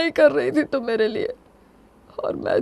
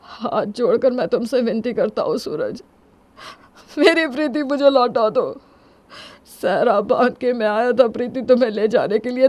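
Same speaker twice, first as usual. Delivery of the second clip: tearful pleading. Acted. Begging rival to return the wife, tearfully pleading. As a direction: beg in a restrained, broken-hearted way.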